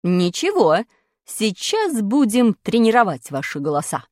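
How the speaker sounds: a hint of a threatening teacher; menacing teacher. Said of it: "грозно сказала учительница".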